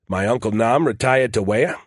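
"Nam" and "Wea" with R's dropped; R-dropping Maine accent. A narrator's reading. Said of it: "which I pronounce Nam and Wea".

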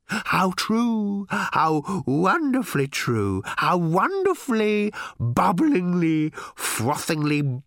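high, slow, rising rapture; ecstatic robot. A narrator's reading. Little robot overjoyed at Ford's remark. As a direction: build the rapture word by word.

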